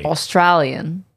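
mock Australian accent; put-on Australian accent. Co-host demonstrating the accent, put-on Australian accent. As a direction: show off a fake Aussie accent. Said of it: "This is Australian".

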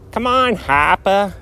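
lightly mimicked ad catchphrase; commercial imitation. Host recalling a Hopper commercial, lightly imitated catchphrase. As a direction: mimic a half-remembered commercial line. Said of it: "Wasn't it, like, a commercial".

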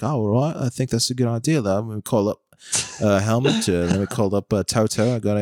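lightly voiced impression of a British commentator; Martin. Commentator musing about calling up team bosses, lightly imitated. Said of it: "Martin's like".

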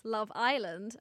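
drawn-out American Love Island, weight on Island; American accent. Shown as a demonstration. Podcaster comparing accents for her co-host, American accent. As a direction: put on American, lean on the I. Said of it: "For Americans".

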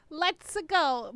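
lightly voiced, stretched-out game catchphrase. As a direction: try out the game hero's catchphrase. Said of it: "I didn't think about the".

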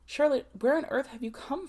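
astonished question. A narrator's reading. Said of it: "she questioned".

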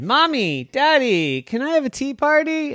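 put-on high, fast pleading child voice; pleading kid dinosaur. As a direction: beg your parents for a party. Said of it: "And he said".

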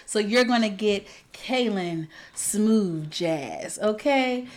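slow, smooth late-night radio host; radio announcer voice. Acted. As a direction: croon it like a smooth jazz DJ. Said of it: "I've challenged myself to do this pod in my best radio announcer voice".

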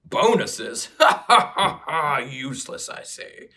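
lightly voiced orc, rough and blunt. Playing Gogron the orc to his sister, lightly voiced orc scoff. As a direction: play the orc brother scoffing. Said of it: "in my best orc accent".

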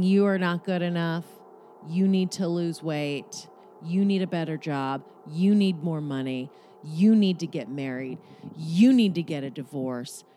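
mild mock yell, punching each opening word; insistent, repetitive pretend hectoring; imitated screaming. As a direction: chant demands like people shouting at someone. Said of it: "listen to them screaming".

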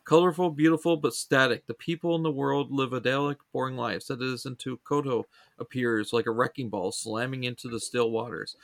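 emphatic opening settling into measured blurb reading; synopsis read-aloud. Real, not acted. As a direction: read a show description aloud in phrases.

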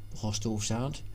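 plain reading voice

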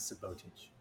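"sabotage" said as suh-BOH-tij; playfully misstressed "sabotage", long O in the middle; wrong-syllable stress. Pretend. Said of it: "put the emphasis in the wrong syllable".

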